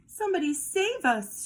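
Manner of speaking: high frightened plea; shrieked plea. Acted. Dogs begging for help from the monster, high frightened cry. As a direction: beg for rescue in a panic. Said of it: "shrieked the dogs".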